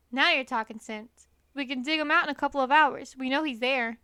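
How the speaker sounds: eager, loud farmer voice; excited farmer. Acted. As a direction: grab the idea, loud and quick. Boggis, farmer character voice.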